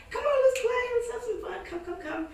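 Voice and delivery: dog-coaxing voice. Retold or imitated. Sweet-talking the dog to her.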